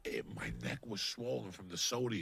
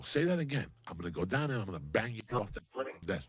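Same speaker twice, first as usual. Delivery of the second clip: retold threat. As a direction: dare them, then threaten matter-of-factly. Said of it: "just like that".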